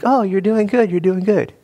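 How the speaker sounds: high, bright mock-praise as God; God cheering on. God on a swivel chair praising his child.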